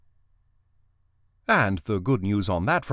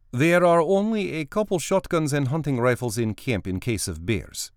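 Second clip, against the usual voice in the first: armorer's voice; 7 semitones higher than usual. Acted. Katya the armorer speaks.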